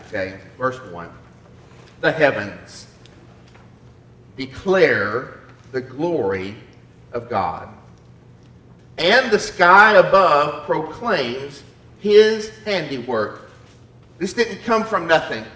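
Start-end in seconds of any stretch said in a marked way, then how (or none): 2.0-13.5 slow, weighty reading with long pauses; scripture reading. Acted. Preacher reads the psalm to his congregation, slow scripture reading. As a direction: proclaim it phrase by phrase, drawing out key words.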